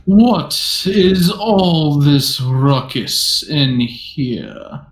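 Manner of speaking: slow, haughty, sultry lady. Acted. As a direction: purr it out slowly, haughty and sultry. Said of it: "as this haughty, sultry voice".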